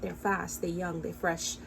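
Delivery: put-on "They're fast, they young, they fresh" quoted quietly in her own accent; her own accent, softly. Vlogger mimics people judging young girls, soft and in her own accent. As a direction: mimic the gossip in her home accent, hushed. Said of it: "This is my accent".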